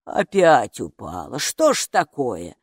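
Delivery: head-shaking dismay. Acted. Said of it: "покачала головой привратница".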